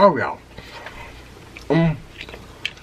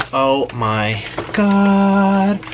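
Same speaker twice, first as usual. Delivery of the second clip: drawn-out delight; 3 semitones higher, much slower than usual. Real, not acted. Reacting to taste.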